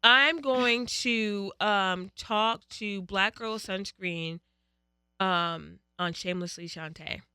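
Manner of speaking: slow dictation. Shown as a demonstration. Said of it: "Say, say, say".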